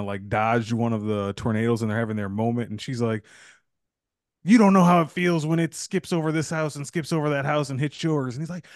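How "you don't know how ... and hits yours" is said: raised-pitch dramatic quote; lightly hammed-up confrontation; mock movie argument. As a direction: act out her pained accusation. Retelling the movie couple's argument.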